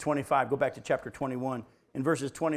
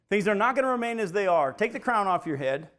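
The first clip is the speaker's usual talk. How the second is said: emphatic restatement; 5 semitones higher, 6 dB louder than usual. Real, not acted. Preacher repeats the warning.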